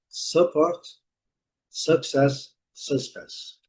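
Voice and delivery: "support", "success", "suspense" each with a schwa first; English pronunciation. Shown as a demonstration. Teacher recapping pronunciations for students, English schwa words. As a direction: model the three words as separate items. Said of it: "as transcrições fonéticas".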